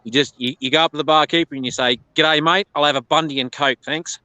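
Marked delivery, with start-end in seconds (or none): 2.1-4.2 light Australian pub accent, casual. Shown as a demonstration. Australian showing an American how to order at a pub, in a mild Australian accent. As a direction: order like a relaxed Australian at the bar. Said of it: "this, this is how you order it".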